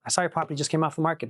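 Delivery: brisk run through the opener; quick script read. Shown as a demonstration. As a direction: rattle off the opening line. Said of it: "You just do that all day".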